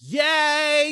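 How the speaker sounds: high mock-cheerful cheer; mock enthusiastic yay; sarcastic yay. Real, not acted. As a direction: cheer it with fake delight.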